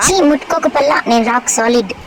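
cheeky sulky pet voice; a lightly put-on sassy pet; voiced pet. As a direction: talk back like a spoiled pet. Pet talks back to owner.

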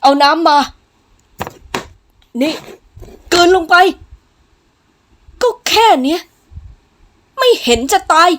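loud, high, forceful orders; callous, angry barking; domineering master. Acted. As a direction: force it down with short, shouted commands. Master forcing medicine, ordering the maid.

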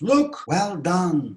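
high, drawn-out praise; exclamation. Shown as a demonstration. Teacher models praising someone's good work, exclaimed. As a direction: cry out slowly with high pitch. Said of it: "Bakın böyle diyorsunuz".

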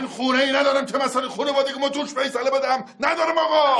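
bitter shouted complaint at his brother-in-law; angry shout. Acted. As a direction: yell that he has no home. Husband's angry outburst at brother-in-law.

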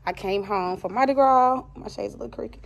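talking around a retainer; slightly lisped retainer speech; wearing a retainer. Real, not acted. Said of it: "I do have my retainer in, so I'm talking funny".

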